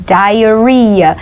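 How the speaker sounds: diarrhea said clearly as "dai-uh-REE-uh"; English pronunciation. Shown as a demonstration. Teacher warns learners about spelling, diarrhea pronounced "dai-uh-REE-uh". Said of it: "Presta atenção na pronúncia".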